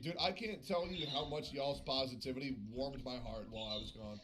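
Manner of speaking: sincere thanks. Real, not acted.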